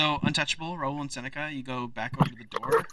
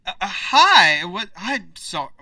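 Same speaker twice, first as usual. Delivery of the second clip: higher, startled, stumbling mayor voice; a caught-off-guard official, fumbling; flustered mayor; 6 semitones higher, 6 dB louder, slower than usual. Acted. Mayor caught off guard by strangers, flustered and high.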